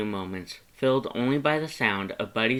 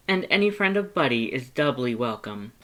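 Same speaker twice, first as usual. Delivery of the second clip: emphatic Papyrus; 3 semitones higher, 4 dB louder than usual. Acted. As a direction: brush aside the worry. Papyrus adds.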